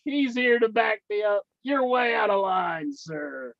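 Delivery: mock scolding.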